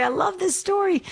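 bright burst of joy up high; delighted. Real, not acted. Radio host thrilled by the caller's story, excited. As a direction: gush over it, thrilled.

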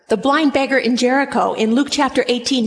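usual speaking voice

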